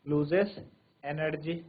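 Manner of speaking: very slow, each phrase spaced out; slow dictation. Shown as a demonstration. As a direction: dictate slowly for notes. Dictating definitions to class. (धीरे-धीरे लिखवाना)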